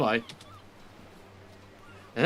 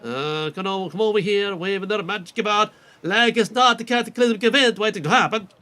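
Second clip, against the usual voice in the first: put-on NPC accent. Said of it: "ways I can do this accent".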